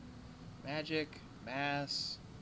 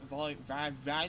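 toothpick in mouth; 3 semitones lower than usual. Real, not acted. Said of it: "trying to talk with a toothpick in my mouth".

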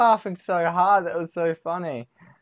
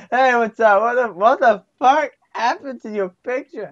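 imagined friend's shocked reaction; 4 semitones higher, 6 dB louder than usual. Acted. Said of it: "be like".

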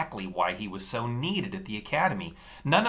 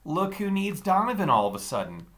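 sneering; 5 semitones higher, 5 dB louder than usual. Acted. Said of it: "The taller Daniel sneered down at me".

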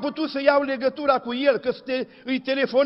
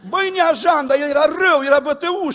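loud, raised preaching burst; loud exclamation; 3 semitones higher, 6 dB louder than usual. Acted. Preacher to the congregation, exclaiming loudly. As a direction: call it out hard to the congregation.

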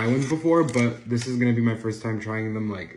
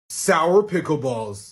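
slow announcer; 2 semitones higher, 4 dB louder, much slower than usual. Acted.

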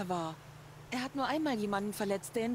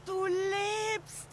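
higher, slower cry of relief; relieved surprise; 9 semitones higher, much slower than usual. Acted. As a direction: breathe out thanks at finding him alive. Sister finds brother alive.

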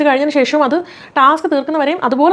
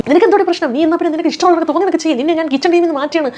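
angry retort; 6 semitones higher than usual. Retold or imitated. Retold kitchen quarrel, Anumol snapping.

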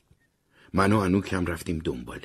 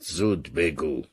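weary sigh; 2 semitones lower, much slower than usual. Acted. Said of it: "آه کشید و گفت".

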